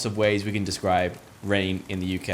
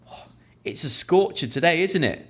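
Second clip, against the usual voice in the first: higher friendly remark; cheery small talk; 5 semitones higher than usual. Shown as a demonstration. Stranger remarking on the hot day, higher and friendly. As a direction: invite them to chat. Chatting about sunny day.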